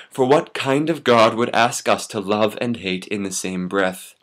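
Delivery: measured slam delivery with deliberate pauses; slam poem. Acted. First-time slam poet performing for audience, declaimed. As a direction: recite it to the room, phrase by phrase. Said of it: "I'm gonna slam it for you".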